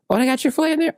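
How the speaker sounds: high-pitched acted "oh, really?"; delighted surprise. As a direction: react to great news, pitch jumping up. Acted delight at airport news.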